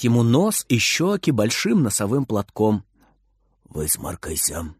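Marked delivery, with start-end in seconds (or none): 3.7-4.7 low, soft grandfatherly order; commanding grandpa. Acted. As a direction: lower and softer, slow old man's command. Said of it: "командует дедушка".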